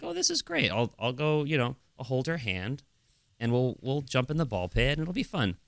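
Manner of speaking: high eager burst at the start; picture the fun ahead, giddy; excited dad. Retold or imitated. Dad imagining the ball pit, mildly giddy. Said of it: "So I was like".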